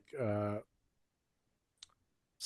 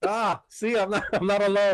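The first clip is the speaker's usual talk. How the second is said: excited; 8 semitones higher, 4 dB louder than usual. Real, not acted. Vindicated by Reddit quote.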